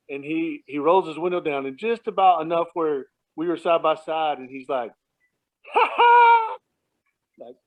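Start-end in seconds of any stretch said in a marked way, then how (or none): 5.7-6.6 loud, high-pitched mocking "ha ha"; taunting laugh. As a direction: crow it like a gleeful taunt. Retold taunt out car window.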